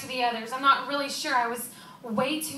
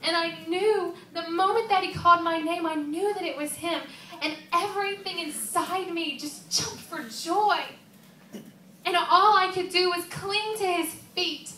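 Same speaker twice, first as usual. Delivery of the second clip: higher, heartfelt rush of joy; acted overflowing joy; 3 semitones higher than usual. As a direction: relive the moment of joyful recognition. Joy at recognizing Jesus.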